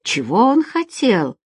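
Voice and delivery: slow, mildly grumpy question; a touch of displeasure, drawn out; displeased. Acted. Mustafa walks up to question Feride, displeased. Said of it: "недовольно спросил её подошедший Мустафа".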